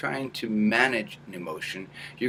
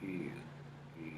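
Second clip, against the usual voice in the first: small nasal ew; 5 semitones lower, 19 dB quieter than usual. Shown as a demonstration. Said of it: "make sure it's symmetrical".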